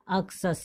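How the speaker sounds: "अक्सस" said with ks in the middle; pronunciation demo. Shown as a demonstration. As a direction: read out "अक्सस" as AK-sus. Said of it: "इसको पढ़ेंगे".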